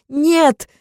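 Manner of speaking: high loud scream of no. Acted. Wife screaming as the grenade pin is pulled. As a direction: scream in terror. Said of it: "закричала я".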